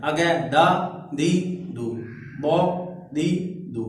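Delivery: दा, दी, दू sounded one by one, with a full heavy बौ; syllable drill. Shown as a demonstration. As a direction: drill each syllable, full then thin. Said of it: "बौद हमने पढ़ा था ये पूरा है".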